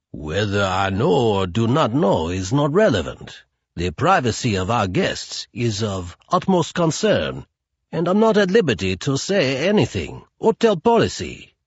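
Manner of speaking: stiff, proper hotel clerk; prim concierge. Acted. Concierge refuses Marta, stiff and proper. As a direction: refuse her politely but firmly.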